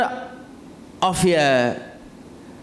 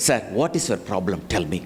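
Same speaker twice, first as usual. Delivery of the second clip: lower, mildly soothing question; calm inquiry; 7 semitones lower, 4 dB quieter than usual. Acted. PRO asks the customer after the cool drink, calm and placating. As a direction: invite the complaint calmly.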